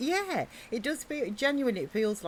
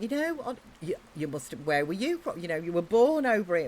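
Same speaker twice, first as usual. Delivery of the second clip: put-on American accent. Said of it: "I practice my American accent".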